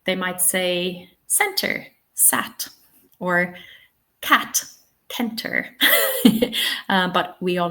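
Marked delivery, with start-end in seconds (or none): 2.1-2.7 cat said wrongly as sat; wrong pronunciation. Shown as a demonstration. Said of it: "might assume that they are both pronounced the same". 5.1-5.7 kenter said with a hard k for center; wrong pronunciation. Shown as a demonstration. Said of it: "might assume that they are both pronounced the same".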